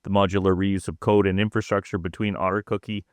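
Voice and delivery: steady, even read of a technical news report; scripted report read. Acted. Co-host reading a malware report to listeners, scripted read. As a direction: read the prepared script out evenly. Goes back to the prepared report.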